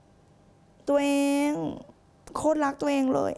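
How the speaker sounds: mock sweet self-talk. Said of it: "เราคงไม่ได้พูดกับตัวเองว่า".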